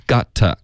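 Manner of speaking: GOT with an open "ah" vowel; open-mouthed "gah" vowel in GOT; got, not get. Shown as a demonstration. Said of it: "不是get".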